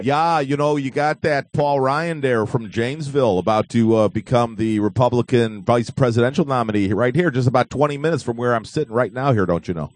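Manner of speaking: put-on light Wisconsin accent, folksy. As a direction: talk like a Wisconsin local. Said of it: "you're talking in your best Wisconsin voice tonight".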